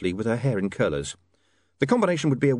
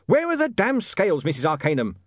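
urgent, pleading demand; desperate to find the scales; 7 semitones higher than usual. Acted. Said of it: "said William desperately".

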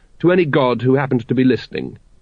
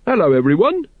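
much higher squeak; 7 semitones higher than usual. A narrator's reading. Watchtower mocking the king, squeaking. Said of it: "he squeaked".

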